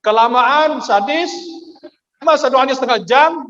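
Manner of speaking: keluhan tinggi dan keras, setengah merengek; protes sambil nangis. Retold or imitated. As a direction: jamaah mengeluh doa terlalu lama. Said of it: "Dia nangis". (protes kesal yang melengking)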